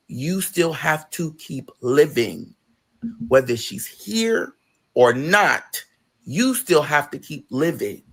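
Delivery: slow, deliberate counsel; sincere advice. Retold or imitated. Friend gently telling her to keep living, slow and sincere. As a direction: lay the words down slowly, like wisdom. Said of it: "And she said".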